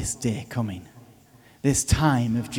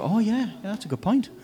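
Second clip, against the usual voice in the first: much higher, sarcastic giving-in; mock concession; 10 semitones higher than usual. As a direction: play a silly surrender. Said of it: "As if somehow Jesus is gonna go".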